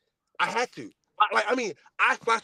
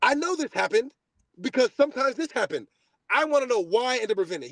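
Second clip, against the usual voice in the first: exasperated; 3 semitones higher than usual. Retold or imitated. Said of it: "I say it again".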